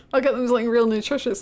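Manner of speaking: fast, laughing through the line; giggling while reading. Real, not acted.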